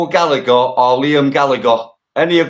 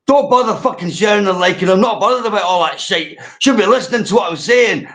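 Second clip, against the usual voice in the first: retold angry rant; 5 semitones higher than usual. Retelling Dell's livestream answer to a commenter, mock angry. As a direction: mimic a fed-up streamer telling people off. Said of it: "He's angry as fucking".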